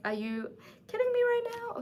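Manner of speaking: can't believe he stopped; exasperated disbelief. Real, not acted. Outraged at stopped kiss.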